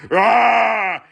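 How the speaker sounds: short yelled "Ah!" at full voice; brief outright shout; loud yell. Shown as a demonstration. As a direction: bark "Ah!" as an outburst. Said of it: "It's not".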